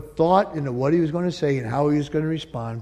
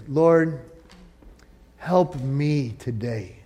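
prayer. Acted. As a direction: pray humbly for help. Leads congregation in prayer.

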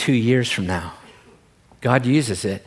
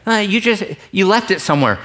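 Pooh; 5 semitones higher, faster than usual. Retold or imitated. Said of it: "Pooh is like".

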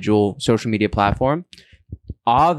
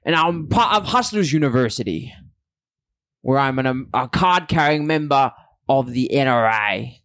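attempted British accent; 2 semitones higher than usual. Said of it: "That's an Australian accent".

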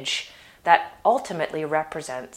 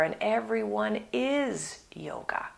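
hushed, breathy whisper; 4 semitones higher, 6 dB quieter than usual. Real, not acted. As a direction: whisper it like a secret. Soft close of a thought.

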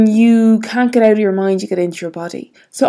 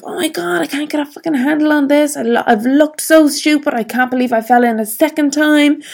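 higher, exasperated self-talk, lightly acted; mock berating herself, fast and higher; retold self-scolding; 5 semitones higher, faster than usual. Retold frustrated inner self-talk.

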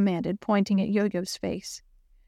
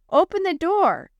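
raised voice calling through the door; 9 semitones higher, 4 dB louder than usual. Acted. Girl outside locked classroom, calling loudly. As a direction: call out to be let in. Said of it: "she called as she knocked".

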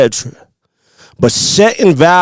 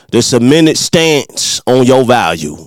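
"minute stance" in a slight Midwest country accent, a touch lower; light Midwest country accent; 3 semitones lower than usual. Shown as a demonstration. Host repeating his episode title in a mild Midwest country accent. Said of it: "Or with my little country accent".

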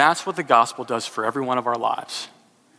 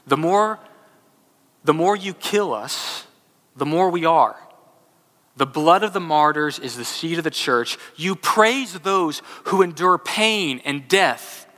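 impassioned reading of Tertullian; 3 semitones higher than usual. Acted. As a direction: proclaim it like an early church father pleading before Rome. Reads Tertullian's defence aloud.

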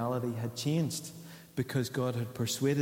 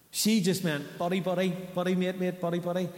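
higher, bouncy repeated buddy; mock buddy chatter; 6 semitones higher than usual. Pastor mimicking girlfriend's casual word, higher. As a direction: rattle off the words lightly.

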